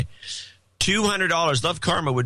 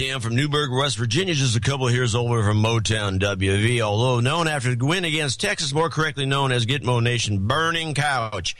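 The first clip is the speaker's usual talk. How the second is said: NASCAR announcer voice. Pretend. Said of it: "talking with a Southern accent with an announcer's voice".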